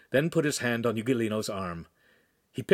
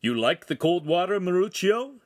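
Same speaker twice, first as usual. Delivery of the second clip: higher, curious question rising at the end; quizzical; 7 semitones higher, 3 dB louder than usual. A narrator's reading. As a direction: ask it with puzzled interest. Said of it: "Agostino inquired quizzically".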